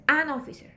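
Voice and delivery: AN brought out before officer; stress on AN. Shown as a demonstration. Teacher giving the correct answer, stress on AN. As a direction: lean on the article AN. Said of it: "Aquí la correcta es".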